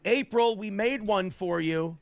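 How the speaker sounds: mock yell of a friend calling from upstairs; imitated yell. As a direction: call out cheerfully from upstairs. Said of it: "I hear Nick yell".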